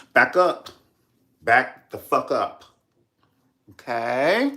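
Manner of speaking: loud, sharp warning to back away; angry back off. Acted. To people pushing her against the wall, a loud angry back off. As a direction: shove the words at them. Acted shove-off at church.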